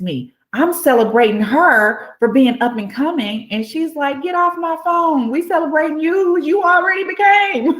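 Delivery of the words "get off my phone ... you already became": very high, excited playful telling-off; mock scolding friend. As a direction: scold them with celebration, voice way up.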